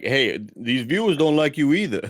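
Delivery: laughing through a mock address to camera; half-laughing, scolding Paulie straight down the lens; laughing mock Stallone. Podcaster imagining Stallone telling Paulie off, laughing. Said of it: "for Stallone to look in the camera and be like".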